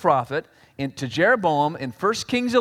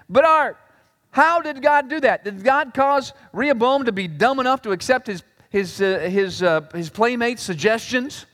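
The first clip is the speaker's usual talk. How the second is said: doubting listener; 4 semitones higher than usual. Retold or imitated. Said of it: "here's some of you saying".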